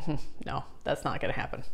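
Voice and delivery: lightly voiced serpent, dropping to a soft unvoiced hiss of words; a hint of a scheming snake brushing it off; sly serpent. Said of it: "and the serpent's like".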